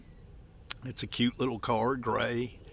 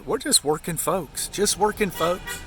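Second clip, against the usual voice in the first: high, louder insistence; 7 semitones higher, 5 dB louder than usual. Real, not acted. Insisting on their modest life.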